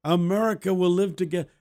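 mild mock yell of a children's chorus; retold group yell. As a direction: declaim it like a school group chanting. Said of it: "the group would yell".

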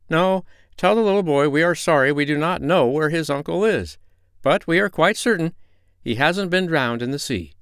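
high, firm sea-creature voice; reassuring porpoises. A narrator's reading. Porpoises assure the doctor the uncle is not drowned, high and certain. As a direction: porpoises promise the uncle is alive.

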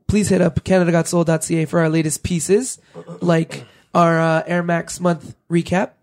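worn-out, fading voice; losing voice. Real, not acted. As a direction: voice going hoarse. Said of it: "Does it sound like I'm losing my voice?".

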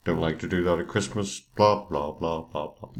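flat, droning bored policeman; monotone voice. Retold or imitated. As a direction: drone it out like a dull lecture. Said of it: "monotone voice".

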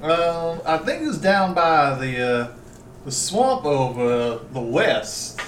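lightly slurred southern magistrate; southern accent. Acted. Magistrate recalling where children were last seen, southern accent. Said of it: "Stop doing the southern accent".

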